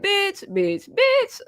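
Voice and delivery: high-pitched, playful pet name; friendly "bitch" tone. Shown as a demonstration. Showing how she calls all her friends bitches, high friendly tone. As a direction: toss it out high, like greeting a close friend. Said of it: "But you know the tone".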